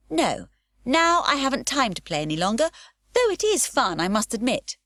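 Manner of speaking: high, cheery, leaping up on though it is fun; carefree girl shrugging off the game; lightly voiced breezy little girl; Pippi's voice. Pippi breezily refuses to play.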